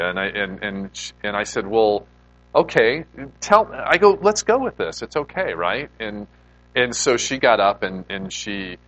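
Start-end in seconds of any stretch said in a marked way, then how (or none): 1.7-5.9 flustered. Retold or imitated. Flustered going along with it.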